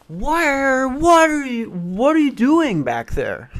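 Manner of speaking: high, drawn-out disbelief; mock baffled cry. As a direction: wail the question up high, then let it drop. Acted outcry at screamers in woods.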